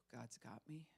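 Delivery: soft whisper to calm yourself; whispered self-reassurance. Shown as a demonstration. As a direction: breathe it out like a quiet prayer. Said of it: "I feel like falling apart right now".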